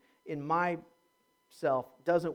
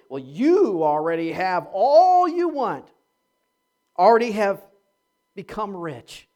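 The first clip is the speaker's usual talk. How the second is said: satirical; 6 dB louder than usual. Shown as a demonstration. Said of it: "read it maybe in the tone that Paul was writing".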